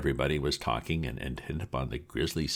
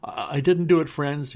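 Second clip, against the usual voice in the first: sobbing; 13 semitones higher, 7 dB louder than usual. Acted. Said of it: "he sobbed".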